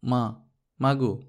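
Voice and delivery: put-on slow, coaxing little girl's plea; eager pleading. Little girl coaxing her mother for a treat, eager and slow. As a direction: tug at mother with the voice, wanting something. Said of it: "উতলা গলায় বলত".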